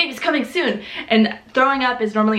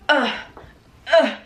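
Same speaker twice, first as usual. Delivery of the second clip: effortful groan; 3 semitones higher than usual. Retold or imitated. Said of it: "really hard to move".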